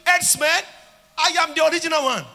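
loud, high fervent declarations; preaching at full force. Real, not acted. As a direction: thunder each arrest at the crowd.

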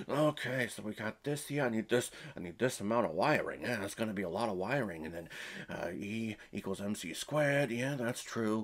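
mumbling to himself over blueprints; mock mumbled babble. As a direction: rattle off fake science under the breath. Mocking Jeffrey's mumbled science babble.

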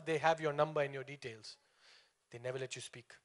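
normal talking voice

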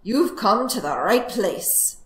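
loud, slow relish; pleased fox welcoming prey; gleeful cry. Acted. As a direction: savor it like a hungry fox. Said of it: "cried the fox".

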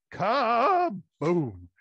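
loud, high crash sound; kaboom crash. Acted. Wolf trips over the bear with a loud kaboom. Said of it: "He went".

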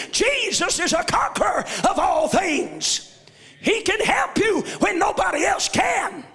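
shouted gospel preaching with rising fervor; full-force preaching. Acted. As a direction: lift the church with each line.

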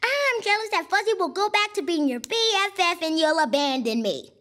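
exaggerated mock confession, "I'm" stretched out; sarcastic. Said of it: "are you still being sarcastic".

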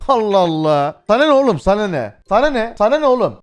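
yelling at chat in real exasperation; real shouting. Real, not acted. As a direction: shout it out, fed up and rattled. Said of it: "Ben niye bağırıyorum ya?".

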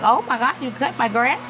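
retold thrilled praise for her son; excited. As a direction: mom overjoyed at her son's chore, excited. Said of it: "I was excited".

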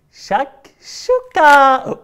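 شكشوكة drawn out, loud and high; loud magic word. Shown as a demonstration. Host leading kids in shouting, slow and loud. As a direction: call out شكشوكة slowly. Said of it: "يلا بصوت عالي".

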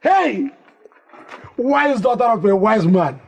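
high, elated exclamation; jubilant praise. Acted. Father praises pregnant daughter for her catch, overjoyed. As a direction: cry out high in proud delight.

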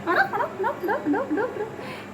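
high clicking calls; animal call. Real, not acted. Calling the animal with sounds. (हाक मारणारे उंच आवाज)

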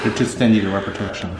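low, soft fake sobbing; mock crying. Husband fakes tearful whimper accusing partner of ruining marriage. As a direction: whimper like a wronged spouse.

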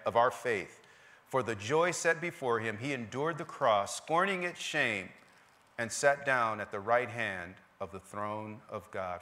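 measured pulpit reading; scripture reading. Acted. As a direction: proclaim the verse, slowing at the phrase ends. Reads scripture to the congregation.

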